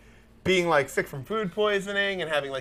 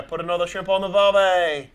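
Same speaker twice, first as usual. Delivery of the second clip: Australian accent. Shown as a demonstration. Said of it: "you know".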